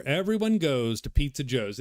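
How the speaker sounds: lightly put-on Italian accent; stereotypical Italian accent. Quoting hometown pizza commercials, mild stereotypical Italian accent. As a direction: imitate an ad with a hint of Italian. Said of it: "in an Italian accent".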